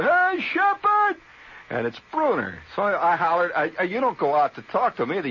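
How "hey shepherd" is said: very high, loud drawn-out yard call, slow; hollering for a friend. Retold or imitated. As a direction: stretch the names out like a kid calling across yards. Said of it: "And I hear".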